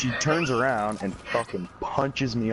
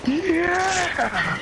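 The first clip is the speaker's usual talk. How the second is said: high, long hollered yeah; mock party cheer, stretched out; enthusiastic yell; 4 dB louder than usual. Answering friend's store invitation, high excited shout.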